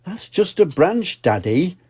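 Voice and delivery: put-on high little girl piglet voice; lightly voiced little pig; Pepper's voice. Child pig voice in story.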